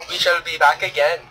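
put-on bright, loud Indian accent outro; a put-on Indian accent, upbeat. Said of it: "do the outro in an Indian accent".

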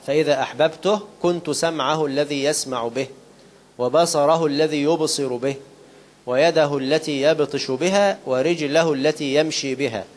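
measured, solemn reading of the sacred text, word by word; slow hadith recitation. Acted. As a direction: recite it slowly like scripture. (تلاوة متأنية للحديث)

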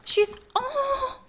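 high, squeaky whimper of joy; overjoyed, voice thinning to a high airy squeal; happy near-crying. Real, not acted. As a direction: squeak it out as if tearing up with happiness. Overcome with joy at the wedding.

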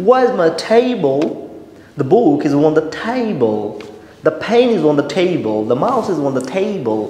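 "table" as "thay-bol", puff on every T; slow model sentences, "table" opened with a breathy T; aspirated T. Shown as a demonstration. Teacher gives example sentences to learners, "table" with aspirated T. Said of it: "আমরা কি বলতে পারি".

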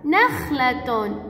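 "نخلة" very slow and stretched; slow, drawn-out model of "نخلة"; sounding out. Shown as a demonstration. Teacher sounds out example word.

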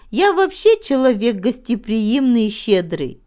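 ordinary delivery

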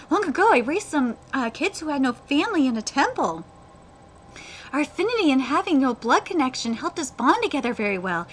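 earnest backstory narration; animated manga reading; story read-aloud. Acted. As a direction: tell the sad past as a story. Reads character's backstory.

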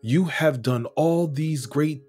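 fervent scripture reading. Acted. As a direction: pray David's words as if they were your own, swelling with awe. Reads scripture passage aloud.

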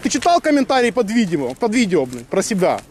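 slow, high-pitched, heated question; angry taunt. Real, not acted. Man confronting opponent over comments on the video, angry. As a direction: needle him angrily, drawing it out.

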